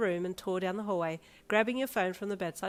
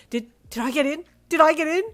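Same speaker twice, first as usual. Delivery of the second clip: higher and louder, rising to a shout; excited disbelief; 9 semitones higher, 12 dB louder than usual. Acted. Teen begging mother for college news, rising shout. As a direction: beg for the answer, voice climbing.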